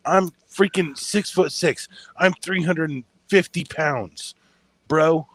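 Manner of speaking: half-hearted wrestler boast; wrestling promo. Acted. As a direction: brag like a pro wrestler, lightly. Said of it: "Are you cutting a wrestling promo on me right now?".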